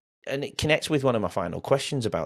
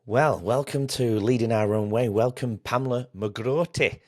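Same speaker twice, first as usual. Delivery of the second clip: a light put-on Scottish accent, slower; 3 semitones higher, slower than usual. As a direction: welcome her in a mock Scottish accent, a bit slower. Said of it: "I had to put my Scottish accent on then".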